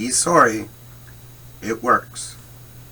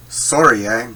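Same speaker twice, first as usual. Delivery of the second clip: Canadian sorry eh; 6 dB louder than usual. Shown as a demonstration.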